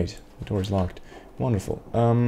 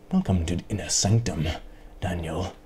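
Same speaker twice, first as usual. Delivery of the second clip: a lightly put-on grand welcome, lower; mock solemn greeter; 4 semitones lower than usual. Gamer voicing an imagined sanctum keeper, lightly mock solemn. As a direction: play a pompous gatekeeper, barely. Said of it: "Why are you talking like that?".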